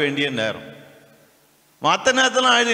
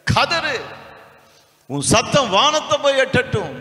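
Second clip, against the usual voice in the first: mocking a shouting preacher; 7 semitones higher than usual. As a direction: ham up the fervent pleading preacher. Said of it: "அவர் சொல்றாரு". (ஏளனமாக உரத்த போதகர் குரல்)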